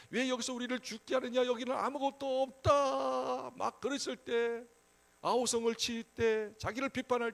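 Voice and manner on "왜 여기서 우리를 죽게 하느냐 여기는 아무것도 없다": mock angry complaint. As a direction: imitate a crowd railing at its leader. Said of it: "막 다투고 막 자기를 막 욕하고".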